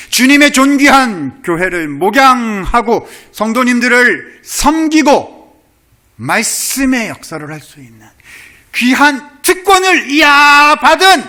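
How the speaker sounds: high, loud sermon peak; full-throated pulpit cry; preaching at full force. Acted. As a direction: lift the congregation with fervor. Preaching climax.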